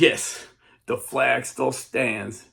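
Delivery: proud slow declaration; triumphant. Retold or imitated. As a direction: announce it with relief and pride. Triumphant answer at dawn.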